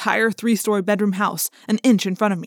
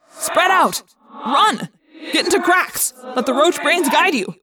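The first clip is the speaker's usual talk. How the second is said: shouted orders; 7 semitones higher, slower than usual. Acted. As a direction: bark them out while running. Shouting orders while fleeing danger.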